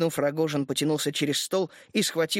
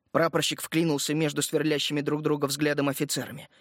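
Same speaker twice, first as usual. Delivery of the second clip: plain reading voice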